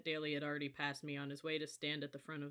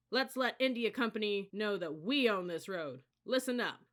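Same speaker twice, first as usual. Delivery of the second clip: loud rally; 5 semitones higher, 7 dB louder than usual. A narrator's reading. Leader rallying platoon.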